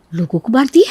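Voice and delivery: stunned question, rising at the end; disbelieving echo. Acted. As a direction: repeat it back in disbelief. First stunned echo of news. (अविश्वास भरा सवाल)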